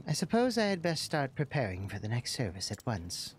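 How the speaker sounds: lightly voiced prim caretaker; a hint of a proper old-fashioned servant; game character. Voicing the game character reading his lines.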